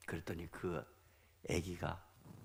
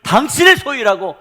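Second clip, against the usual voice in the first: high, loud pulpit proclamation; ringing declaration to the congregation; forceful preaching; 10 semitones higher, 17 dB louder than usual. Real, not acted.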